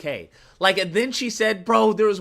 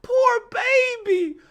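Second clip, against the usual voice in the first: mock pity; slower than usual. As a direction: coo it like a pitying parent, hammed-up. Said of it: "I was like".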